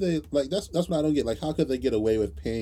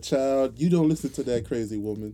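scolding mother; 3 semitones higher, 4 dB louder than usual. Retold or imitated. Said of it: "Your mom was like a".

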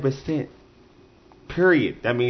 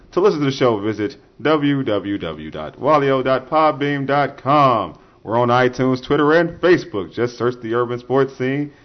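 smooth radio announcer read. Shown as a demonstration. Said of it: "I'll read it in my radio voice".

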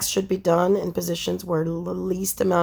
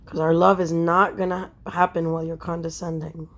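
softly spoken, with pauses; quiet, tongue-in-cheek love speech; mock-romantic hush; 2 semitones lower, 5 dB quieter than usual. Wife telling husband their love needs quiet, mock-romantic hush.

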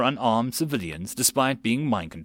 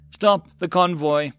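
slow, firm, raised-pitch command; ordering; 6 semitones higher, 4 dB louder, slower than usual. A narrator's reading. Sergeant halting his convoy, ordering. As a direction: give it as a military order. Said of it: "Mills ordered".

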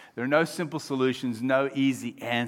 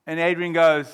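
ordinary delivery

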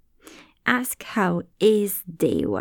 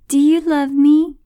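pleading jackal; 8 semitones higher, 8 dB louder than usual. Acted. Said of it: "And the jackal asks".

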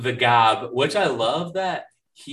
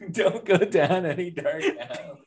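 imitated high-pitched caller; 5 semitones higher than usual. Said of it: "he calls Mary Jane".

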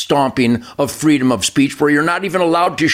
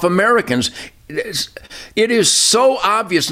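frustrated, emphatic rant with raised stresses; real frustration; 3 semitones higher than usual. Real, not acted. Guest railing at government scams to the host, frustrated. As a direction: hammer out each charge, exasperated. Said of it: "hear the frustration in my voice".

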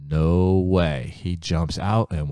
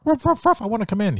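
high loud dog barks, then the dog begging; dog barking; 5 dB louder, much faster than usual. Acted. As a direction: bark to be let in. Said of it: "he would bark".

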